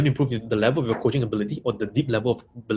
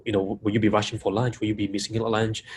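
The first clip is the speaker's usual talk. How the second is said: questions run together with little space; stacked questions. Shown as a demonstration. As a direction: pile one question on the next. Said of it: "If I stack questions like this".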